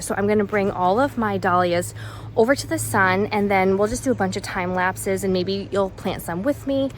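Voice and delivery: slightly winded while talking; out of breath. Real, not acted. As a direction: talk a little breathless from work. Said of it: "I'm getting out of breath".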